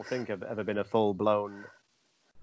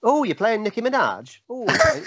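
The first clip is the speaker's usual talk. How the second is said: much higher, gushing mock delight; mock excited; 12 semitones higher, 4 dB louder than usual. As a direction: squeal it out to get let in. Acting excited to enter gay bar.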